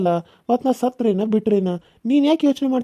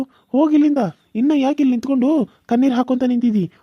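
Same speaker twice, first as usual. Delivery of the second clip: angry order; 3 semitones higher than usual. Acted. Rejected lover telling Suma to get out, angrily. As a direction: drive her away.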